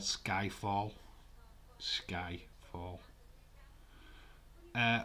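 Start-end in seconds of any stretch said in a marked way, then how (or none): 1.8-3.0 the ring name breathed as a hushed, spooky whisper; dramatic whisper. Pretend. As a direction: whisper the name like a secret reveal.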